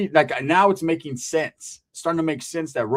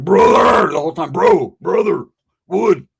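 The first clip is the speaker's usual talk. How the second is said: loud urgent calls of brother; mock tweaked-out shouting; hallucinating call; 4 semitones higher, 10 dB louder, slower than usual. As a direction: call out to him, seeing things. Hallucinating friend calling out.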